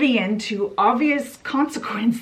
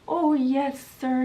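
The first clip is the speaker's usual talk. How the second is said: higher, put-on old washerwoman voice; Toad as washerwoman; 4 semitones higher than usual. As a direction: play a meek poor washerwoman.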